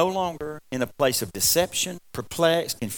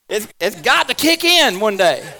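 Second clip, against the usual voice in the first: laughing; 6 semitones higher, 8 dB louder than usual. Real, not acted. Laughing about no weight loss.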